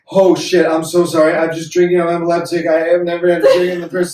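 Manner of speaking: high, loud frantic apology; panicked pleading. Retold or imitated. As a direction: beg for your life, words tumbling out. Apologising with knife at neck.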